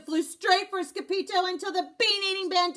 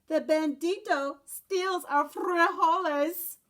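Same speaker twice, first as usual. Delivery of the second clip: put-on Spanish-accented dog voice; 3 semitones higher, slower than usual. Dog character voice.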